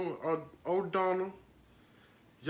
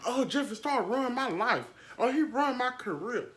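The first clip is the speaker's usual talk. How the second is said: mocking James Charles; 5 semitones higher than usual. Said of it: "he had to respond like".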